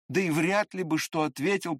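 ordinary delivery

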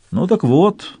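ordinary delivery, nothing marked

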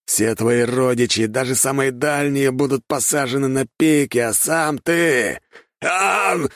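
slow, high, drawn-out threat; a cruel lord promising revenge; menacing threat. A narrator's reading. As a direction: savour every word of the threat. Noble threatens the traitor.

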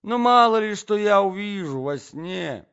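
high, loud, flustered excuse; old-fashioned gentleman crying out in protest; protesting prince. A narrator's reading. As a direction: plead loudly in your own defence.

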